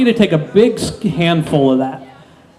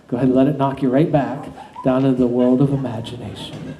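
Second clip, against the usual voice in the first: hypnotist induction. Acted.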